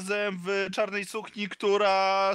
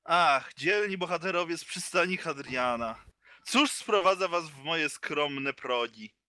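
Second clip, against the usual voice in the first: lower, slow and aloof; cold haughty voice; 3 semitones lower than usual. Acted. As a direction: talk down to the heroes coldly. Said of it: "zimnym, wyniosłym głosem mówi".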